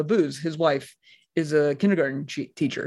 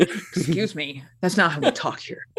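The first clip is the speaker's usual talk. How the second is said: prim teacher; 3 dB quieter than usual. Retold or imitated. Imitating teacher scolding.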